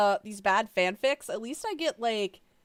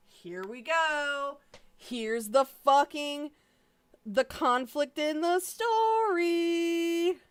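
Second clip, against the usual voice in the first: higher, slow mock excitement; sarcastic drawl; 7 semitones higher, 3 dB louder, much slower than usual. Real, not acted. Mocking the fanfic's conflict, slow sarcasm. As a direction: drag it out sarcastically.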